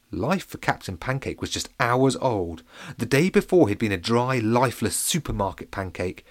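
usual speaking voice

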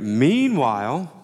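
slow, rising "Meanwhile" like a TV narrator; TV show segue voice. Shown as a demonstration. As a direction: say "Meanwhile" like the voice that opens part two. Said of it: "you know, you get".

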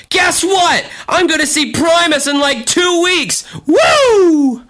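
very high, squealing excitement; over-the-top giddy announcement; ecstatic shout. Acted. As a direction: burst out with thrilled fan news, ending in a whoop. Reads excited diary news aloud.

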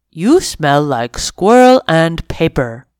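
lightly voiced friendly dog. Dog sniffs kitten.

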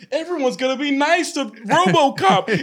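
naive Ohio voice. Retold or imitated. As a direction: sound naively upbeat. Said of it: "someone from Ohio was like".

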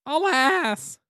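high, theatrical cry of alas; dramatic alas. Acted. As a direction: wail it like a tragic narrator. Dramatic story ending exclamation.

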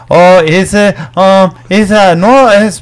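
slow hammed-up stammering excuse; mock excuse. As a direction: stall and fumble like a bad liar. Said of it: "giving you excuses like".

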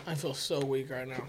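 weak and quiet; feeble, drained voice. Real, not acted. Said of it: "negative effect on you".

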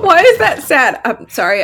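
talking while chewing; mouth full. Real, not acted. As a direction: talk through a mouthful. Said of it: "I'm eating trail mix".

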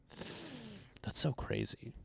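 very high, drawn-out, airy "so crazy"; fake-stunned reaction to your own email; mock disbelief. Rereading his email, mock-stunned disbelief.

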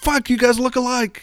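high, lightly mocking voice; tossed-off high quip; high amused player. Host imitating the player remarking on father and son, pitched high. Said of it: "And he's like".

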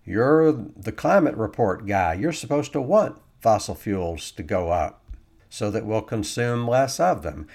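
lightly voiced heckler jabbing at the climate report guy; imagined critic. An imagined critic challenging the climate report guy, calling out loudly. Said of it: "somebody might say".

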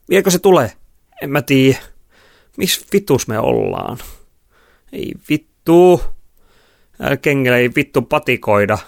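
high, loud, whining swearing; agitated stranded girls. A narrator's reading. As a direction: complain loudly, dragging out the curses. Stranded girls bicker, cursing. (kiroilevat, hätääntyneet tytöt)

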